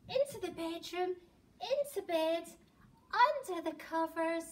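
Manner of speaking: high, loud and breathless all the way; frantic escape. Acted. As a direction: race home in playful panic. Frantic run home from the bear.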